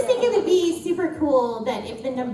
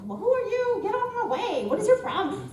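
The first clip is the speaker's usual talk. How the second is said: put-on higher-pitched Houston hood accent; 9 semitones higher than usual. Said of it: "I talk like this".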